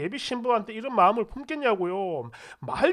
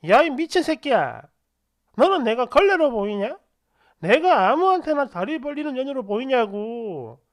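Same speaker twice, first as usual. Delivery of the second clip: retold outraged tirade, louder at the start; angry cursing; 2 semitones higher, 4 dB louder than usual. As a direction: lash out with insulted indignation. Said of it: "아예 막 쌍욕을 하는 겁니다". (모욕당한 듯 화내며 욕하듯)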